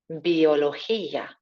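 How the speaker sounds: biología with a back-of-throat g, bio-lo-KHI-a; throaty g. Shown as a demonstration. Teacher repeating biología, throaty g. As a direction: rasp the g in biología. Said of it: "Coming into the back of the throat".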